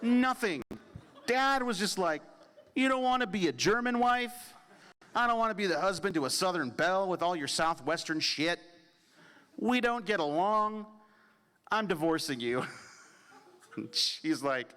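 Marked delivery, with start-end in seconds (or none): 2.7-12.7 mock shout. Dad voice shouted in retelling.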